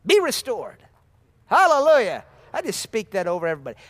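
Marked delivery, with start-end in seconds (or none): 0.1-2.3 loud, high declaration; full-force preaching cry; preaching shout. Real, not acted. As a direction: proclaim it over the room.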